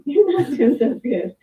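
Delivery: quoting Brenda through a laugh, slow and amused. Retold or imitated. Retelling what Brenda told her.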